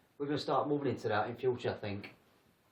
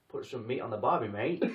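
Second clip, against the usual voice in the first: a bad mock Australian accent; hammed-up Aussie, barely there; 4 dB louder than usual. Shown as a demonstration. Showing off a poor Australian accent to friends. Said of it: "I can do Australian and all".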